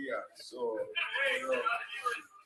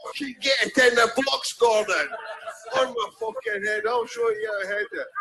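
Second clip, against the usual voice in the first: Archie yelling; 10 semitones higher than usual. Retold or imitated. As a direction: bellow for the cross like an impatient coach. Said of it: "And Archie's going".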